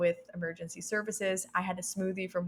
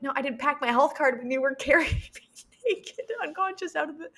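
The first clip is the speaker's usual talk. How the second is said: higher, laughing incredulous reply; mock the absurd request; sarcastic retort; 8 semitones higher, 5 dB louder than usual.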